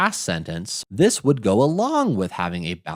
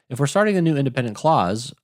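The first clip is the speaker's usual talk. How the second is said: "If we're starting a new independent clause" said faster and a bit higher; quicker restart; 3 semitones higher, faster than usual. Shown as a demonstration.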